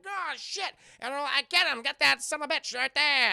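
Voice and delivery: loud, high, hammed-up alarm; excited imitation of shouting goons; mock gangster yelling. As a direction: shout orders like an attacking henchman. Acts out robots attacking.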